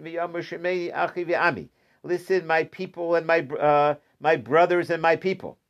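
lightly sung-out heartfelt address, a touch of a famous singer-rabbi; his style. Retold or imitated. Teacher lightly imitates a singer-rabbi addressing his brothers, mild singsong. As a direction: call out to the crowd like a warm rebbe, only hinted. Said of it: "sounds like a singer-rabbi over here".

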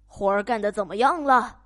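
loud, demanding farmer; 懒农夫大声嚷嚷; farmer yelling. Acted. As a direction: bark it from bed like a lazy boss. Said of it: "农夫嚷嚷道".

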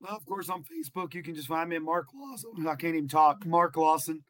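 hoarse, strained voice; scratchy, worn-out voice. Real, not acted. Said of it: "I sound like a squeaky chair".

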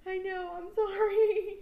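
high, slow, drawn-out sorry; a loud, pleading little sorry; sheepish apology. Retold or imitated. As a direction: act out a guilty kid's apology, high and slow. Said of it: "I was like".

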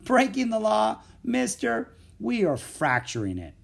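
high mocking echo, then settling; laughing scoff. A narrator's reading. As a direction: scoff at the question, amused. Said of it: "Louis laughed".

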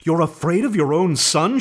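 high, accusing cry; indignant cry. A narrator's reading. Wife accusing her husband, high and indignant. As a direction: throw his fear back at him. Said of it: "she cried".

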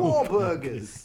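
put-on Boston accent. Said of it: "can you guys do a Boston?".

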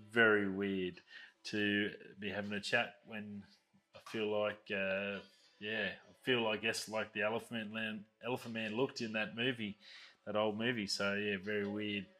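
talking with half the face numb; numb mouth. Real, not acted. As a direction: speak like after a dental anaesthetic. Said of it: "my whole left side of my face is numb".

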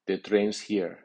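"train's" stressed, with a falling end. Shown as a demonstration. Teacher gives a noun example, strong stress on "train's". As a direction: put the strong accent on "train's". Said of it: "el nombre lleva acento fuerte".

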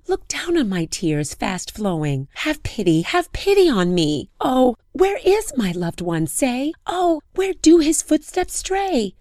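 loud high pleading lament; crying plea. Acted. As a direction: cry out to the stars. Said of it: "she cried to the stars".

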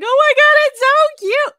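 high, loud delighted squeal over something adorable; gushing squeal. Retold or imitated. Watching the baby announcement video, a loud high squeal. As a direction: shriek it like you just saw the cutest video. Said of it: "I was like".

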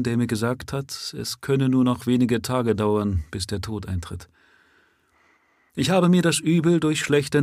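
a hint of a calm, doomed man speaking plainly; steady, unafraid of death, rising at the end; lightly voiced prisoner, resigned. Dying prisoner explaining to the police he is no common murderer. Prisoner tells of his illness.

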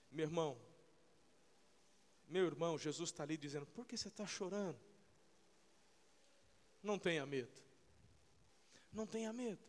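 soft, low, gentle reassurance; tender and quiet. Real, not acted. Preacher comforting listeners crying in the car, soft and low. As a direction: bring it down and comfort them.

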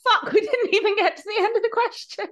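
high-pitched, breaking up with laughter; real helpless amusement, voice shooting up; laughing realisation. Real, not acted. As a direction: laugh through the words at your own blunder. Realises they forgot the question, laughing.

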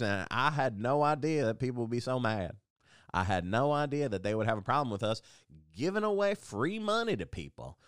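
hammed-up Southern accent for a flustered marketing man; dumb Southern accent. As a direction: plead innocence in a put-on Southern accent. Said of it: "Southern accents because".

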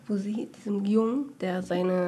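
slow hushed whisper, trailing off; secretive slow whisper. Real, not acted. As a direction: whisper the gross part, slowly. Whispering the gory movie scene.

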